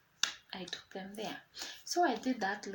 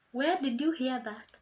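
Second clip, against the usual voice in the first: higher, louder alarmed question; startled; 4 semitones higher, 7 dB louder than usual. Retold or imitated. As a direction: caught out by mom. Startled reply to mother.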